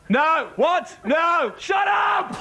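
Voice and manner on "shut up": mock shout. Host bantering with Stephen.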